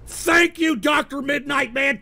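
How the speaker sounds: high, emphatic thank-you; shouted thanks. Real, not acted. Host thanking a supporter amid trolling, shouted thanks. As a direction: call out thanks with force.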